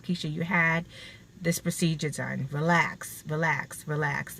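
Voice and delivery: low, soft self-reassurance; calming self-talk. Retold or imitated. Woman tells herself to relax after her procedure, soothing. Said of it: "I have to tell myself".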